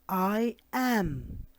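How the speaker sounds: slow clear "I am" for the class to repeat; model pronunciation. Shown as a demonstration. Teacher modelling "I am" for the class to repeat. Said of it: "Repeat, please".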